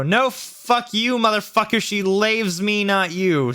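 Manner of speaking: high, drawn-out mock shouting. A narrator's reading. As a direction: shout back slowly, hammed up. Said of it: "shouted Vampire".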